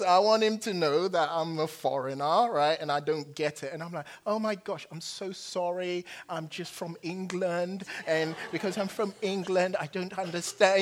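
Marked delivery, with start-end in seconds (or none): 4.3-10.8 hammed-up English accent, apologetic and flustered. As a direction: pile on the English accent to charm the officer. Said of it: "I turn on my English accent".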